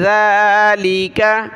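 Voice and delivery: ज़ालिका opening on a voiced th as in "this"; tongue-out zaal. Shown as a demonstration. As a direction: start ज़ालिका with tongue between teeth, vowels held. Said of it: "ज़ाल पर ज़बान निकालें".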